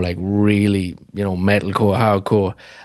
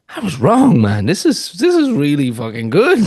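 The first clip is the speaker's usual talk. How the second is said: excited realization; 4 semitones higher than usual. Retold or imitated. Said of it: "I'm like".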